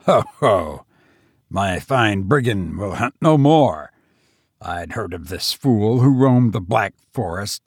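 lightly voiced, menacing madman gloating; mad tavern host.

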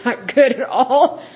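laughing through the words; can't keep a straight face. Real, not acted. Host laughing about the stinky dishwasher. Laughing at own bad story.

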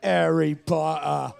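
slow mock British accent; put-on English accent. Contestant playing with Harry Potter's name, put-on British accent. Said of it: "accent you've ever done".

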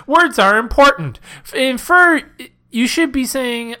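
high, slow mock British accent; British girl impression. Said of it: "Do the British girl".

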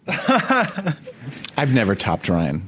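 very slow, laughing. Real, not acted. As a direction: drag it out while laughing. Laughing denial.

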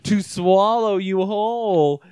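loud, slow monster reply; slow, loud monster answer; creature voice. Acted. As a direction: growl it like a hungry creature.

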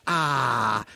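imitated teacher's "Ah", no R; "Ah" drawn out, R dropped. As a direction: say "Ah" for AR, long open vowel. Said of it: "she couldn't say R".

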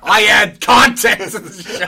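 laughing. Pretend. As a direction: boast while cracking up. Mock self-importance, laughing.

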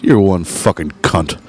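low, slow and pointed; deliberate insult. Retold or imitated. Bar owner to a rude woman, slow deliberate insult. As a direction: deliver the insult slowly, low in pitch. Recounting his own insult.

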